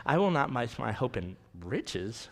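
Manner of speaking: sassy, indignant refusal; with attitude. Shown as a demonstration. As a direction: say it like who would ever do that. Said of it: "put a little attitude in it".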